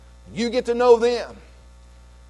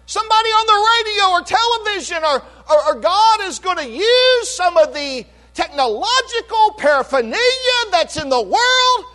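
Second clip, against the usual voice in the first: higher, rising fervent preacher's cadence; full-force preaching; 10 semitones higher, 4 dB louder than usual. Real, not acted. Pastor exhorting his church about the saved, fervent preaching. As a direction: build the list like a revival sermon.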